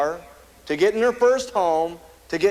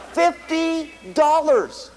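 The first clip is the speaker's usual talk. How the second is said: laughing disbelief; 7 semitones higher, much slower than usual. Real, not acted. Scoffing at tiny insurance sum.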